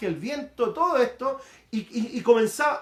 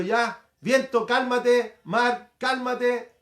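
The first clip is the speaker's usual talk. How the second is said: slow, firm command, a little raised; reprensión al viento; 3 semitones higher, 5 dB louder, much slower than usual. Retold or imitated. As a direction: order the storm down, drawing out each word. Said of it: "reprendió al viento y al mar". (orden firme y pausada, imitando a Jesús)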